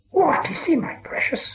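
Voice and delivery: high hissing whisper dropping to breath; creature whisper. A narrator's reading. Gollum whispers to himself, curious about the stranger. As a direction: wonder aloud to yourself in a hiss. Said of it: "whispered Gollum".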